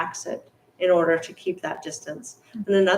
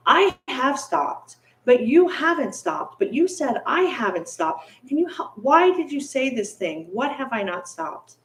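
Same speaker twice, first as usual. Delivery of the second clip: higher puzzled bandit pleading for an answer; confused bandit; 6 semitones higher than usual. Acted. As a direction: ask it higher, genuinely bewildered.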